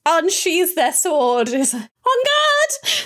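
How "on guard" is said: high, nervous shout; vaguely terrified. Acted. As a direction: challenge them but scared stiff. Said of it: "in a kind of vaguely terrified way".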